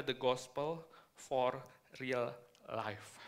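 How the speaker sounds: talking with braces on; slow words around dental braces. Real, not acted. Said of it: "pakai behel agak susah".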